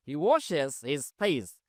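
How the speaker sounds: each word of "He lives in a small house" said very slowly and clearly; slow model reading. Shown as a demonstration. Teacher to Bangla class, a very slow model sentence. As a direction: dictate it word by word to students. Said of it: "teacher reads model sentence slowly".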